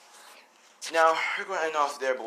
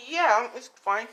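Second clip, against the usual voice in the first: put-on slow high girl voice; 10 semitones higher, 5 dB louder, slower than usual. Girl accepts date.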